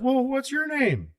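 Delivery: high, slow mock old-man voice; lightly voiced elderly politician asking a name; imitating old senator. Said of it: "And he goes".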